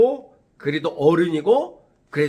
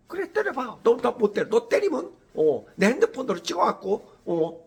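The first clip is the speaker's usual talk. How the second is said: put-on taunting kid; 7 semitones higher than usual. Kids taunting young teacher.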